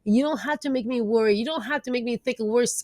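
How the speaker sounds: calm the inner critic like a frightened friend; reassuring self-talk. Retold or imitated. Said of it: "the more we can say".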